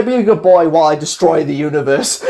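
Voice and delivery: breaking into laughter mid-line; quoting the villain while cracking up; laughing through villain quote. Retold or imitated. Fan retelling Paradox's taunt, laughing. He's really like.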